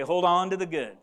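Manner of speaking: leading a congregation refrain; said out loud. Shown as a demonstration. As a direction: say it out loud so all join in. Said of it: "Let's say that out loud".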